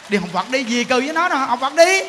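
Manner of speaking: rising, emphatic send-off; husband urging her on. Acted. Acts husband urging, building.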